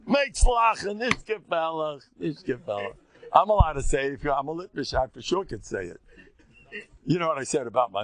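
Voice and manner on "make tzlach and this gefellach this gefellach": mocking singsong. Mocking cadence, shifted voice.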